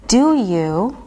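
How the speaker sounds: ordinary talk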